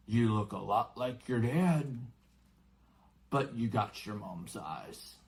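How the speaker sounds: lightly voiced friendly giant; gentle hint of the giant. Giant compares Harry to parents.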